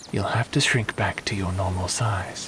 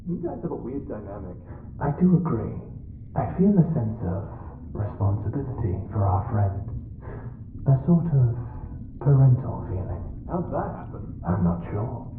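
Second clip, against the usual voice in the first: lightly voiced little creature, higher; a chirpy little companion, pitched up; small creature voice; 4 semitones higher, faster than usual. Little creature sidekick musing to the others.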